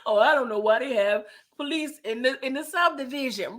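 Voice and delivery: mock quote. Mocking Meech's excuse.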